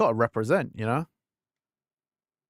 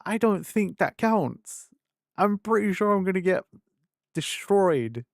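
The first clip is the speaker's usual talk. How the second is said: retold protest; 8 semitones higher than usual. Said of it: "I was like".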